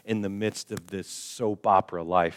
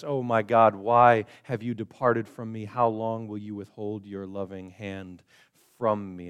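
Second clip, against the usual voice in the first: lament. Retold or imitated. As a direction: cry out to an absent God, then trail off. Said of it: "sounds like this".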